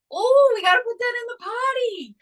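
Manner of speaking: put-on high, bright mom talking to a toddler; high coaxing mom voice. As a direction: call out to a little kid gently.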